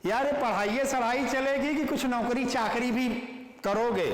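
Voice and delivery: mock casual banter among friends; casual friend talk. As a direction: tease a buddy about his studies. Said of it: "अपने circle में बोलते हैं".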